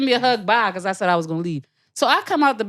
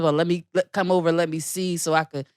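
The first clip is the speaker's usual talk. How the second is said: creepy low voice; 5 semitones lower, 3 dB quieter than usual. Retold or imitated. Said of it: "it was his weird granddad voice".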